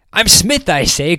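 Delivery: high, loud insistent cry; cried out. A narrator's reading. Theater owner crying out his name to Wild Jack. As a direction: cry out your name again, pleading. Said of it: "cried the theater owner".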